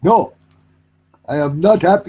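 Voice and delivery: mock anger with an Indian accent; politely indignant Indian-accented man; polite angry Indian accent. Shown as a demonstration. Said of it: "who's angry in an Indian accent".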